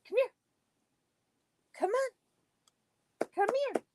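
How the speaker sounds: high sing-song coaxing; talking to a dog. Real, not acted. Calling the dog.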